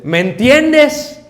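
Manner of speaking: wife asking. Pretend. Wife voiced in marriage scene.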